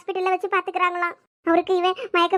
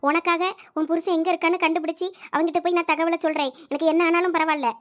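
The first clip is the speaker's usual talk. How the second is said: ordinary delivery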